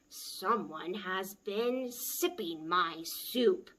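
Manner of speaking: a hint of a slow bear growl; growling Mama Bear. Mama Bear finds her soup sloshed, slow mild growl. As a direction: growl it slowly, lightly. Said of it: "she growled".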